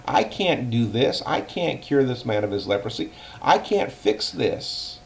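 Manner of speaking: a king at his wits' end, half-acted; panicked king. King of Israel reading the letter, in mild acted panic. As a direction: pitch rising into a distraught wail. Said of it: "He started getting upset".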